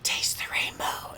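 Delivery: slow breathy whisper right in his ear; creepy whisper. Shown as a demonstration. Whispering to a coworker as a creepy test, slow whisper. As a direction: whisper it slowly to unsettle. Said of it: "and I whispered to him".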